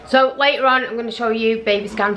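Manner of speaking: talking through a mouthful of chocolate; eating chocolate. Real, not acted. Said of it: "Sorry, I've got chocolate in my mouth".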